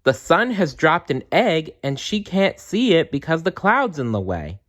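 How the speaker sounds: high, eager explanation; excited elf. Acted. Elf explains the sun dropped its egg, high and eager. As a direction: keep the elf's voice up high and eager. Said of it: "she said".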